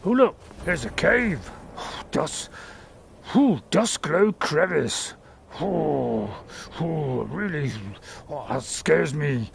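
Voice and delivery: lightly voiced timid companion, slow near the end; a hint of a scared sidekick; voicing the companion. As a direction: play the nervous follower at the cave mouth. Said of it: "She might actually say".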